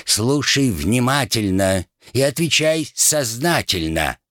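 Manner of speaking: slow, high, lordly drawl of a captain; aristocratic captain voice. Pretend. Rat mimics the captain for his friend, slow aristocratic voice. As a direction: play the haughty crow captain. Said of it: "на удивление точно передав аристократический выговор".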